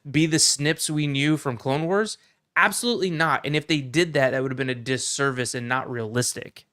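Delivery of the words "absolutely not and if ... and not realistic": emphatic, impassioned rebuttal, pitched up at the start; fervent fan defending a show; passionate. Real, not acted. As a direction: make the point with heated conviction. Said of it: "I got a little passionate".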